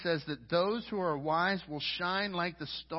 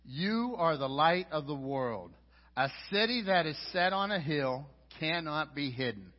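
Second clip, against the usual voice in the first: congregation read-along. Shown as a demonstration. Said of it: "read it with me".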